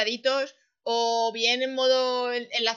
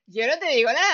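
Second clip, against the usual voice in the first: laughing through a teasing line; 3 semitones higher, 6 dB louder than usual. Real, not acted. Host laughing as she teases her guest about marketing.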